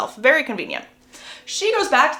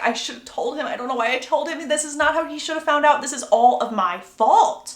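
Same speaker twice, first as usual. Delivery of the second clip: rising, self-blaming panic; acted panic; 4 semitones higher than usual. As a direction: play a mild panic attack, building to the end. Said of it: "she's having a panic attack".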